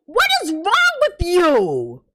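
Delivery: slow, breathless whisper of disbelief; stunned whisper. Real, not acted. Disbelief at Victor.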